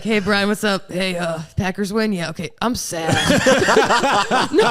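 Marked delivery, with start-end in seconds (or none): 0.0-3.1 louder, higher hammed-up bro voice; mock dude phone call. Imitating a guy calling his buddy to vent, loud and higher, hammed up. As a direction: play a guy blurting out his feelings for laughs, loud and high.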